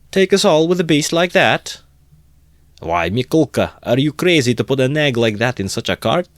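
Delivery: high, loud mocking disbelief; jeering crowd voice. Onlookers mocking the cart owner, loud jeering. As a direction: scoff at him from the crowd.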